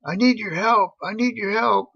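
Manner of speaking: a hint of a nervous young guy begging; pleading kid. Kid at the tracks asks the beachgoers for help, lightly pleading.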